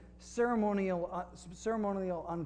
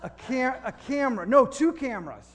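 higher, louder, halting guesses at a vision; mock psychic reveal; 7 semitones higher, 9 dB louder than usual. Pastor fooling an Australian stranger, hammed-up psychic guessing. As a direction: build the fake vision to a loud reveal.

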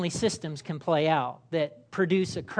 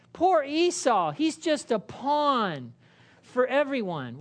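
higher, slow pitying sigh; mock pity; 5 semitones higher than usual. Congregation member pitying Esau, hammed-up sympathy. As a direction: lament Esau as if sorry for him. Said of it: "some of you might be going".

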